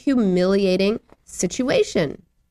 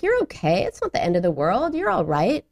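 put-on lightly brushing a crying child off; dismissive parent. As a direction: imitate an offhand, dismissive parent. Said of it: "another parent might have been dismissive".

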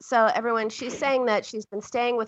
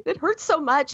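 high mock wail of pain; put-on whimpering kid voice; imitated crying child; 5 semitones higher than usual. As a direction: complain tearfully like a hurt child. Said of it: "She's crying".

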